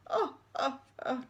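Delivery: put-on high old-lady chuckle; amused old headmistress; chortle. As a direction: chortle it like a giggling granny. Old head chortling again.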